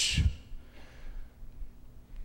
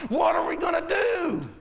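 higher, mock-exasperated demand; hammed-up fretting; imitating upset wife; 4 semitones higher than usual. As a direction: mimic a wife at her wits' end. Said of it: "I mean, she'll get upset".

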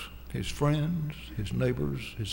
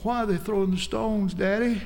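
put-on higher, pleading child's voice; frightened little boy; 5 semitones higher than usual. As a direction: ask like a scared little boy clinging to his father. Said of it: "little boy hugging Daddy's legs and saying".

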